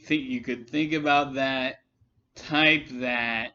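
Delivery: ordinary delivery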